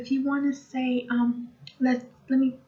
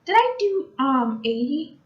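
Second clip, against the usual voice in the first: sudden realisation; 2 semitones higher, 3 dB louder than usual. Real, not acted. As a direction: catch your own mistake with a jolt. Suddenly realises she skipped eighty.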